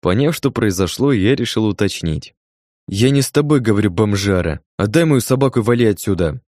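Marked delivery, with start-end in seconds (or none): 2.9-6.4 yelling. Acted. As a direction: snap at the stranger. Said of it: "Заорала она".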